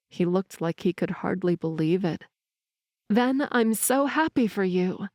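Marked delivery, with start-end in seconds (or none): 3.1-5.1 sincere. Acted. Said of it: "I said genuinely".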